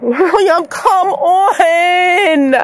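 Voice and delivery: drawn-out, near-crying plea; weary pleading. Real, not acted. Tired mom begging her son, weary pleading. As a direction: whine it out in exasperation.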